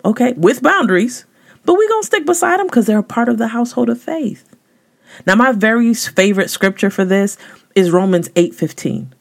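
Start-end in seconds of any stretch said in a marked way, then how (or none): 1.6-4.4 driving emphasis. Real, not acted. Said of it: "repeats it with more drive".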